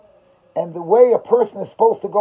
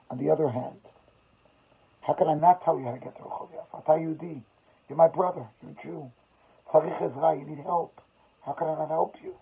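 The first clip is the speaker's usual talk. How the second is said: soft pleading, mildly tearful; understated, subdued anguish; retold crying; 5 dB quieter than usual. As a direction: quietly imitate a broken man pleading. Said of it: "he continued to cry".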